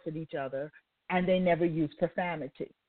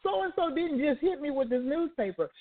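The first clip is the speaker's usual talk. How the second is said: higher, offended voice of disbelief; indignant disbelief; 6 semitones higher than usual. Retold or imitated. Wife bopped with a newspaper, high indignant disbelief. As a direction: play her outrage at being hit, pitched up. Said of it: "she's sitting there going".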